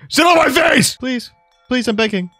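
high, loud pleading yell; mock begging shout. Gamer calling after a fleeing villager, high mock begging. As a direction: beg her desperately, hammed up.

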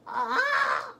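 high-pitched, drawn-out cry; high yelp. Real, not acted. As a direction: let out a high "ah". Sudden reaction while playing.

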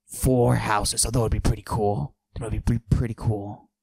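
macho voice pushed down, held the whole bit; forced deep voice. Acted. Comic bragging to the audience in a forced deep voice. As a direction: fake a deep tough-guy voice. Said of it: "I deepen my voice like this".

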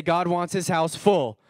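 said out to the room. Shown as a demonstration. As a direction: call it out to your neighbours. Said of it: "look around and say".

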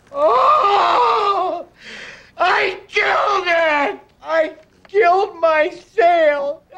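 high, loud, slow wail of horror; panicked shout. Pretend. Salesman shrieking after killing his sale. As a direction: scream it as if the sale just died in your hands.

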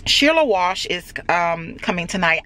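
talking around candy; mouth full. Real, not acted. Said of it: "I got candy in my mouth".

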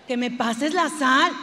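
slow, loud, fed-up repeat; irritated demand. Acted. Wife repeating the request to a deaf husband, slow and irritated. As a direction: spell it out slowly, losing patience.

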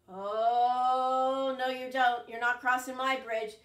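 troll refusing to let the goat cross; gruff troll. Acted. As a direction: block the way as a bossy troll.

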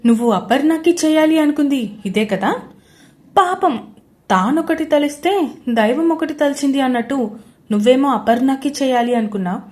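loud, gloating taunt; a confident man mocking his trapped rival; cool and mocking. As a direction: rub her mistake in her face. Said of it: "అడిగాడు దేవ్ కూల్గా".

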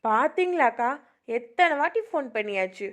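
angry mother. Acted. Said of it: "கோவப்படாத சாவித்ரி".

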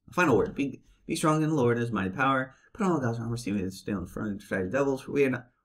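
monotone reading voice; bad acting. Shown as a demonstration. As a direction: read it flat and bored. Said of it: "they read it in a monotone voice".

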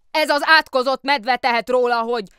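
high, loud, hurried excuses; the policeman desperately excusing himself to the mayor; flustered policeman. Acted. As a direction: stammer out an apology in a rush. Policeman blames the bear.

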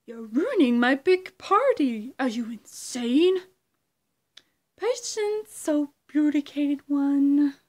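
slow, loud, theatrical Riddler taunt; Riddler impression. Creator doing his Riddler impression for viewers, loud and theatrical. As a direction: draw each word out like a gleeful villain. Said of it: "impression of the Riddler".

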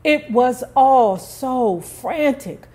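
lightly voiced holler from the stairs. A narrator's reading. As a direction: call it back up the stairs, half-hearted. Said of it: "she hollered back at them".

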